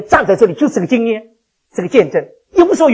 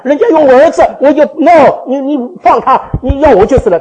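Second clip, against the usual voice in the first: higher, louder, laughing as he refuses; loud mock refusal; 6 semitones higher, 7 dB louder than usual. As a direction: play it as if they came for your son. Acts his own answer, refusing. (大声半笑着拒绝)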